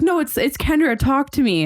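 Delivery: high, pleading impostor's voice. Retold or imitated. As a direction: beg like the fake account. Voicing the fake account.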